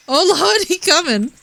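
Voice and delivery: squealed high mock panic; hammed-up high-pitched fright. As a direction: shriek it in fake alarm. Panic as enemy approaches.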